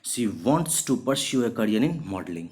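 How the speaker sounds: slow, clear dictation for learners; slow example sentence. Shown as a demonstration. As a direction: read the sentence very slowly, word by word. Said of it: "example sentence read for students".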